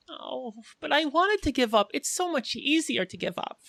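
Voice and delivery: whiny Harley voice. Acted.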